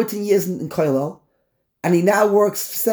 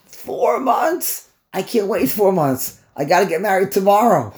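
incredulous groom; 2 semitones higher than usual. Acted. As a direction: act out an impatient groom's disbelief. Acting impatient groom told of four months.

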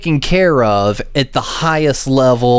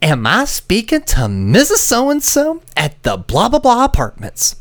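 higher, polished customer-service voice; polite phone agent; 8 semitones higher than usual. Retold or imitated. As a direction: sound like a formal call-center agent. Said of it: "imitating Duke Energy agent".

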